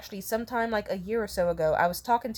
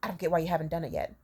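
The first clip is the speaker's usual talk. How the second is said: cold seething; 3 semitones lower, 4 dB quieter, faster than usual. Retold or imitated. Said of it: "cold seething silent treatment".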